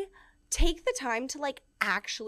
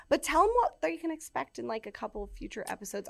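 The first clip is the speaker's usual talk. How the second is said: slipping into a stray Scottish accent; an accidental Scottish lilt; 3 semitones higher than usual. Real, not acted. Host asking cohost in a Scottish accent. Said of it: "said that with a fucking Scottish accent".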